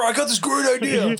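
hammed-up shout of an eager agent; mock eager shout. Friends mocking Doug's undercover idea, shouted eagerly. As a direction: yell it like a kid with a plan.

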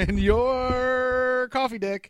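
high, slow, laughing "coffee dick"; laughing comeback. Real, not acted. Teasing his cohost back, laughing. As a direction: crack up as you throw it back.

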